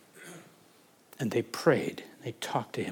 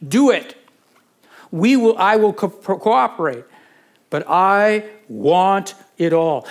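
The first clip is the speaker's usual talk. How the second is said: slow, louder declaration rising higher; determined prayer; 3 semitones higher, 6 dB louder than usual. Shown as a demonstration. Pastor voicing the believer's prayer, determined and rising. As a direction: plead it like you refuse to let go. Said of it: "You must say".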